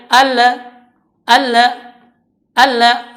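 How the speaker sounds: alla with bounced l; bouncing lam. Shown as a demonstration. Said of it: "ham itu mantul". (alla dengan lam memantul)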